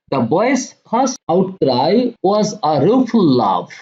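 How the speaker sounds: very slow, deliberate line-by-line reading; slow poem reading. Acted. Teacher reading the poem lines to students, slow and deliberate. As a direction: read each phrase slowly so students can follow.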